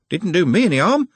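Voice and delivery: hearty and loud; robust. A narrator's reading. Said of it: "said Trev robustly".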